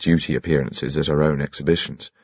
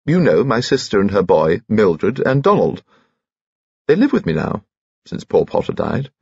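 put-on chirpy piping little old gentleman, much higher; high-pitched Bunchy; 4 semitones higher than usual. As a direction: pipe cheerfully like a tiny jolly gent.

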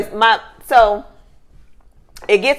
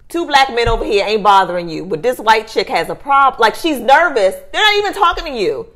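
retold nasty indignation. Telling off a nervous bystander, retold nasty indignation. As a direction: retell it with rising irritation. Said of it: "I was nasty at that point".

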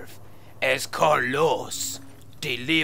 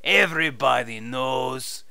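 fake Spanish accent. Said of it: "your fake Spanish accent".

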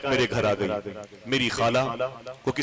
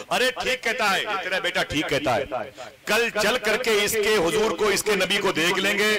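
aunt agreeing; 7 semitones higher than usual. Acted. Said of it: "उनकी खाला ने कहा".

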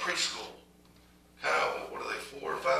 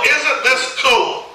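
slow sarcastic question, pitched up in mock delight; sarcastic mock cheer; slower than usual. Preacher mocking the school's email to the congregation, sarcastic. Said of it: "you people are nuts".

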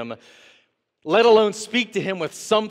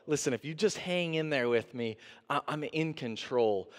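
gentle reassurance; 7 dB quieter than usual. Acted. Preacher voicing God's reassurance.

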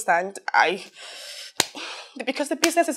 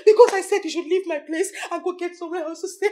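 tearful; 2 semitones higher than usual. Acted. Tearful complaint.

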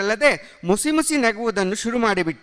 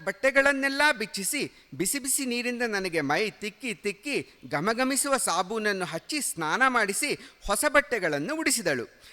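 ordinary delivery

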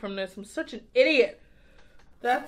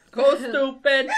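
laughing; 5 dB louder, slower than usual. Real, not acted. Repeating a catchphrase.

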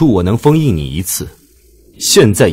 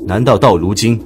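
angry accusation; 5 semitones higher than usual. Acted. Baijue accusing Tianqi in anger.

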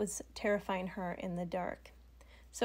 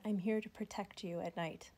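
a gently soothing, slightly softer voice; calm soothing voice; 4 dB quieter than usual. Retold or imitated. Bunny-headed snake calming the frightened girl, soothing and soft. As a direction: reassure her softly and steadily. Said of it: "answered her back in a really calm, soothing voice".

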